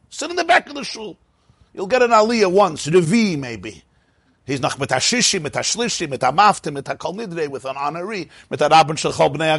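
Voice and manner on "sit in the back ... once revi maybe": mock dismissive. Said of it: "Mela Abal Tshuva".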